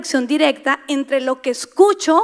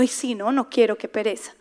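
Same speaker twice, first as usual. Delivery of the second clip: softer, fading lazy grumble; mock lazy sigh; 3 semitones lower, 7 dB quieter than usual. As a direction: sink into the excuse, trailing off. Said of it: "Y uno".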